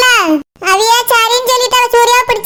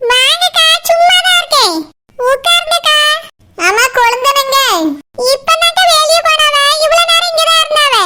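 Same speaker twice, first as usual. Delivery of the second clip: higher, eager hostess voice; eager welcome; 4 semitones higher than usual. Acted. Pathrali greets visiting elder sister-in-law, eager welcome. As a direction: welcome her warmly and brightly.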